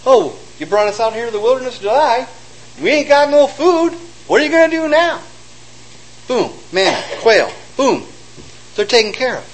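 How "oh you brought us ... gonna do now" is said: whiny grumbling. Acted. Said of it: "The children of Israel would grumble".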